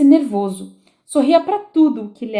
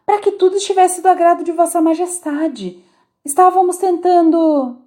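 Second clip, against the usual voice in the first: a touch of humble pleading; humbly; 7 semitones higher, 4 dB louder than usual. A narrator's reading. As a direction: answer humbly, kneeling. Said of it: "respondeu o dois humildemente". (resposta humilde, ajoelhado)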